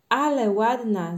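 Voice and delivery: loud, drawn-out admiration; delighted. A narrator's reading. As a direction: marvel at it slowly and loudly. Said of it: "zachwyciła się Kasia". (zachwycony okrzyk)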